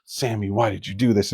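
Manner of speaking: low, soft mock self-scolding; self-reproach. Kid tearing himself down after screwing up, quiet self-reproach. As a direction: scold yourself under your voice, lightly acted. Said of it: "starting to speak against himself".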